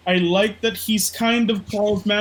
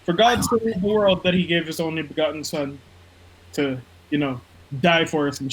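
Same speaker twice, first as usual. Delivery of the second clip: mock Bible reading; 4 semitones lower than usual. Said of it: "So John three sixteen says".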